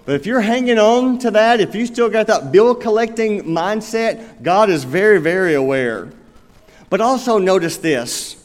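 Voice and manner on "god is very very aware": very said twice, first rising then falling; stress on very. Real, not acted. Pastor warning the unforgiving congregation, stressing very. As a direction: lean hard on very, very. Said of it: "repeated very for emphasis".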